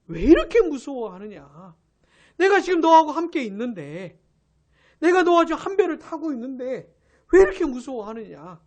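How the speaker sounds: loud, emphatic reproach; acted-out rebuke of frightened followers; scolding. Jesus reproaching disciples who share his boat, scolding. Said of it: "왜 무서워하냐고 혼내시는".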